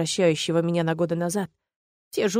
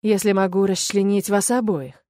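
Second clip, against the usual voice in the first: mocking sneer. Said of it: "усмехается ублюдок".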